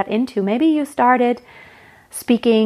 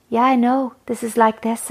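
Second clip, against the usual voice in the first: imitating her voice. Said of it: "hers would be like".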